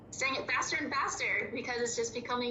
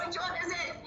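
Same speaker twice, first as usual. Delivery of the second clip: laughing; 8 semitones higher than usual. Real, not acted. Teacher laughs at answer.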